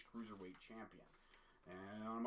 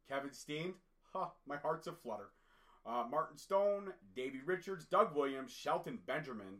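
excited roll call; 4 semitones higher, 7 dB louder than usual. Real, not acted. Excited listing of wrestlers.

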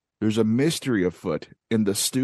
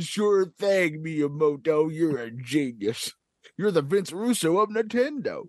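put-on old prospector; 3 semitones higher than usual. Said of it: "And I said".

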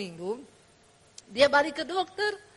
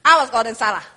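stern threat; 3 semitones lower, 5 dB louder, much faster than usual. Retold or imitated. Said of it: "Kalau dulu gini".

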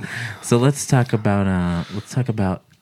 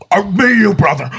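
higher, louder goofy Hulk Hogan; dumb Hulk voice; 10 semitones higher, 7 dB louder than usual. Retold or imitated. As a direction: play Hulk as a dim kid. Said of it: "I think of Hulk".

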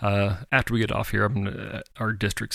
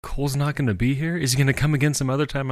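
put-on little girl voice; 5 semitones higher than usual. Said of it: "Mara, she's like".

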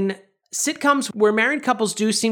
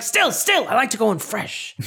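high pleading yelp; 5 semitones higher than usual. Retold or imitated. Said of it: "And he's like".

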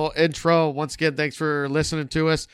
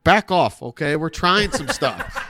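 mock defensive, laughing; 4 semitones higher, 3 dB louder, slower than usual.

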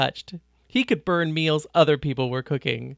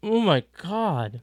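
talking through a mouthful of omelet; words muffled round a bite of food; mouth full; 2 semitones higher, slower than usual. A narrator's reading. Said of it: "tried to comment with a mouthful of omelet".

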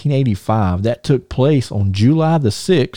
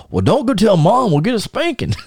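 scheming brother; 11 semitones higher than usual. Retold or imitated. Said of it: "He says".

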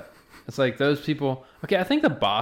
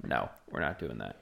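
put-on Midwestern accent; 11 semitones lower, 13 dB quieter than usual. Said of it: "very deep Midwestern accent".

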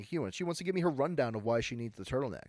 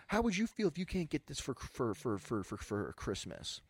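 lightly voiced upset shopper, stammering and slowing; guilt-trip the clerk, losing words; pleading customer. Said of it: "And she's like".

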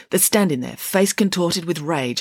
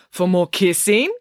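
drawn-out, higher, eager question; excited; 4 semitones higher, 3 dB louder than usual. Acted. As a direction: linger on it with gossipy excitement. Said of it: "asked Missus Cannon excitedly".

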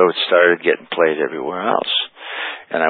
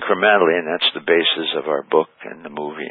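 breathless, short of air; talking while winded; out of breath. Real, not acted. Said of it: "so I'm out of breath".

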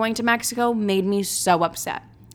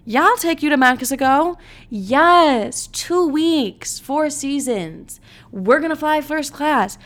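higher, slower, gushing voice of the ideal guy; dreamy fake promise; 6 semitones higher, 3 dB louder, slower than usual. Voicing the guy she wishes said yes, gushing and higher. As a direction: sell the fantasy trip he should have offered. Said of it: "lie to me".

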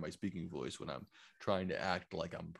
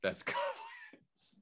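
goblin voice; much slower than usual. Pretend. Goblin voice while laughing.

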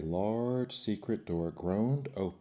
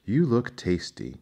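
menacing genie; 3 semitones higher, 7 dB louder than usual. Acted. Hungry genie threatens the fisherman.

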